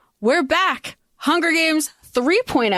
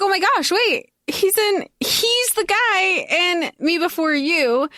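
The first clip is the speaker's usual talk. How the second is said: higher-pitched, retold astonishment; excited realization; 5 semitones higher than usual. Host recalling looking up an actor online, surprised realization. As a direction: act out the sudden recognition, pitched up.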